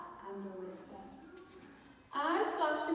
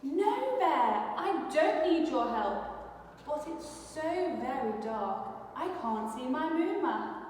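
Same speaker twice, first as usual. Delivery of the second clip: stubborn mouse, lightly voiced higher; proud little mouse; 3 semitones higher than usual. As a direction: insist you need no help, then worry. Mouse character voice.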